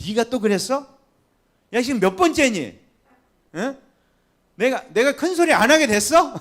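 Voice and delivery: high, loud exasperated telling-off; angry scolding. Retold or imitated. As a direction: scold someone who did it yet again, voice rising. Acting a scolding, short-tempered believer. (높고 크게 화내며 꾸짖는 목소리)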